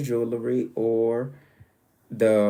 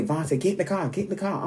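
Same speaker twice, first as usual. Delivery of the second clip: higher-pitched imitation of an insistent mother; urgent mom; 7 semitones higher, faster than usual. Mom ordering her child into the car, urgent. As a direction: imitate mom hurrying you along.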